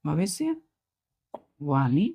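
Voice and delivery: भविष्यवाणी drawn out very slowly; slow teaching demo. Shown as a demonstration. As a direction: lengthen every syllable of भविष्यवाणी. Teacher drawing out the word. (धीरे-धीरे भविष्यवाणी)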